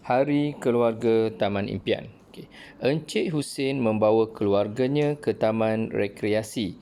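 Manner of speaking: clear, measured storybook narration; teacher reading a textbook story with careful intonation; reading aloud with expression. Shown as a demonstration. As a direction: read the passage like a model reading for pupils. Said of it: "dengan intonasi yang betul".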